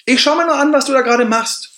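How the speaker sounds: watching inner voice. Retold or imitated. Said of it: "die dritte Stimme, die sagt". (deutlich höhere, beobachtende innere Stimme)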